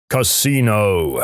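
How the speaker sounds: very slow, drawn-out command from above; stretched mock boom, no real volume. Voice from above repeats its order, slowly booming. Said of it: "the voice repeats".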